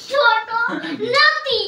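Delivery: loud, high calling out. Real, not acted. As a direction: shout it so they hear. Repeats phrase louder, partner can't hear.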